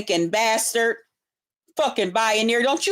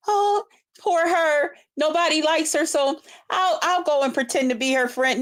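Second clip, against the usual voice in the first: mocking pity; 3 semitones higher than usual. Mocking someone who patronizes her.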